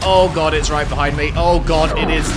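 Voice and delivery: rattled, it's right behind you; scared horror game streamer. Real, not acted. Monster chasing the player in game.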